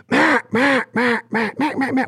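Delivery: high, nasal-free duck quacks in steady rhythm; duck hen call. Shown as a demonstration. Showing callers a real duck's rhythm, high quacks. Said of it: "So a duck will go".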